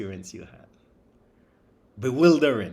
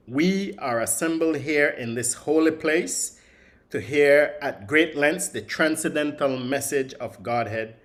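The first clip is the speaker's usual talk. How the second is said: louder, measured recitation; scripture reading; 4 dB louder than usual. Shown as a demonstration. Teacher reading the sage's words to the class, solemn recital. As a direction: declaim the verse with solemn weight. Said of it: "The Rishi says".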